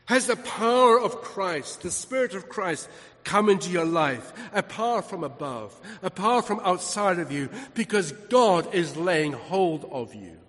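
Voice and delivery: weighty, measured pulpit phrases; emphatic preaching. Real, not acted. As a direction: hammer out each phrase to the congregation. Preaches power from above.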